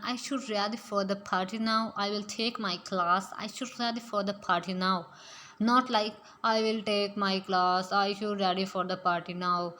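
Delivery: very slow, word by word English; slow pronunciation demo. Shown as a demonstration. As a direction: model each sentence slowly for learners. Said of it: "किस तरह इसको pronounce करना".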